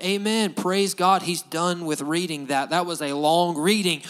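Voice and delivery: mock bored amen, relieved the reading is over; a lukewarm, dutiful amen, nothing behind it; half-hearted amen. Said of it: "It wasn't like".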